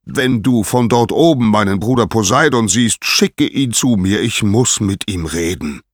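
commanding shout-up, moderately strong; calling out. A narrator's reading. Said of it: "rief er".

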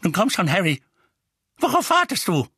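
brisk, exasperated urging; impatient old woman. Acted. Figg impatiently hurries Harry along.

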